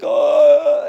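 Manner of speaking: high startled oh, imitating the girl; mock shocked gasp. Imitating the girlfriend, a high shocked oh. Girlfriend reacts to being choked.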